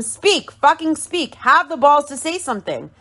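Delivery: high-pitched, insistent retold demand; heated quote at everyday volume; mock angry demand. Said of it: "So she tells him".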